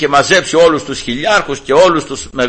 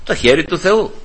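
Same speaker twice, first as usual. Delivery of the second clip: softer, understated reply; soft answer; 5 dB quieter than usual. Real, not acted. Preacher quietly answering his own question to the congregation. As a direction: let the answer drop quietly.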